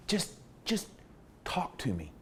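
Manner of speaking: nearly whispered, coaxing him to open up; soft coaxing. Retold or imitated. Interrogator coaxing a prisoner to talk, hushed and gentle. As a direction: breathe it gently, no pressure.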